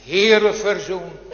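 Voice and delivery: a sinner crying out, pleading for forgiveness; pleading cry to God. Retold or imitated. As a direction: cry out to the Lord for mercy. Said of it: "Dan blijft er maar één roep over".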